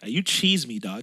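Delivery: mock Toronto Canadian slang accent; imitated Canadian street talk. Shown as a demonstration. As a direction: try out a put-on Canadian accent. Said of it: "how the Canadian thing go again?".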